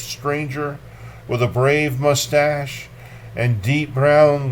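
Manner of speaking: measured, dark poetry recital; lightly dramatic poem reading. Acted. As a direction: read it like a grim memory. Reads Kunitz poem aloud.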